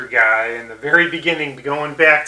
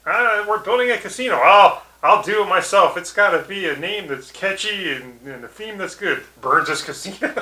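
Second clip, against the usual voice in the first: Mr. Burns; 5 semitones higher than usual. Retold or imitated. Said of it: "And Burns is like".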